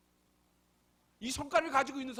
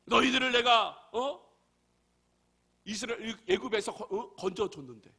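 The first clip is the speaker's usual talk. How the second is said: mock angry Moses; 5 dB louder than usual. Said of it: "화가 막 나오는 거예요".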